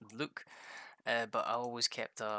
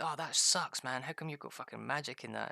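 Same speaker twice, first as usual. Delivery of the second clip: mock jealous complaint; 3 semitones higher than usual. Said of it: "And he's like".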